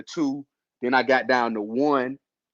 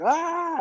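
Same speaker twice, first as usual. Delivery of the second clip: imitated scream; 4 dB quieter than usual. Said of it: "like, screaming".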